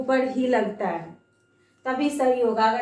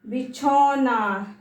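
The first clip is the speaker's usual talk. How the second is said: slow model word; much slower than usual. Shown as a demonstration. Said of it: "और ये क्या है?".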